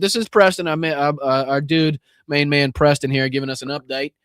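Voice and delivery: put-on playful Southern accent. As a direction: introduce him with a put-on Southern twang. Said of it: "I'm doing a Southern accent".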